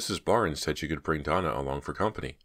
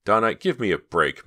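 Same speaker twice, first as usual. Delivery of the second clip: pleading; 5 semitones higher, 6 dB louder than usual. A narrator's reading. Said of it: "Myra pleaded".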